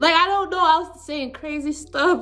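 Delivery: crying. Real, not acted. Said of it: "now I am crying".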